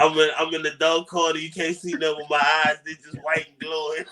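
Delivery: mock spooky figure in the dark corner, lightly done; deep raspy voice. Joking with his co-host as the lurking tunnel figure, hammed-up spooky. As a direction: set the scene as the glowing-eyed stranger, half laughing. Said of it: "I got that deep, raspy voice".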